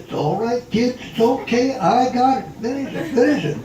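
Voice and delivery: put-on a lightly laughing older showman insisting; imitating Winchell. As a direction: play Winchell urging the kid on, laughing. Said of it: "He said".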